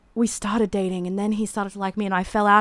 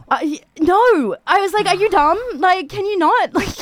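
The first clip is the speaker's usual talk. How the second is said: sharply raised, louder exasperated retort; incredulous; 11 semitones higher, 5 dB louder than usual. Retold or imitated. Singer to pushy guy, loud disbelieving scoff. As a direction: scoff at him like he's dumb. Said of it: "And I was like".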